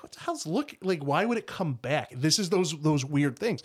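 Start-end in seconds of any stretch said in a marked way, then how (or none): 0.0-2.1 retelling a baffled thought, pitch jumping; baffled disbelief. Retold or imitated. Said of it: "I'm like".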